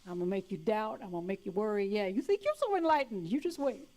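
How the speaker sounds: lightly voiced sly demon; taunting demon. The demons taunting the enlightened, mildly sly. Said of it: "they're still going".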